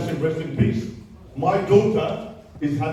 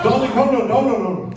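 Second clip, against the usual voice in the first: higher and louder, fending off interruption; firm loud hold on; 4 semitones higher, 5 dB louder, faster than usual. Real, not acted. Mother stopping an interrupter so she can finish, loud. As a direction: hold the floor. Holding back a heckler.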